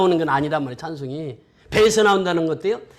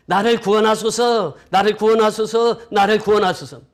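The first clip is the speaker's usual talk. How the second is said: crowd's cry for help; 3 semitones higher than usual. Retold or imitated. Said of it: "큰 소리로 외치되".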